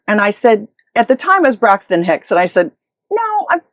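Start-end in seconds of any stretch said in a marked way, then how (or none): 3.1-3.6 starts very high, eases down toward normal; high airy "no, I'm okay" easing down; breezy reassurance. Retold or imitated. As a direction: brush off his worry, bright then settling. Reassuring caller while in labor.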